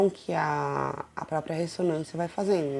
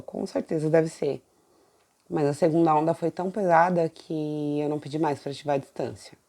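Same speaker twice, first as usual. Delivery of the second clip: numb mouth. Real, not acted. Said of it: "tô falando meio arrastada assim porque minha boca tá anestesiada".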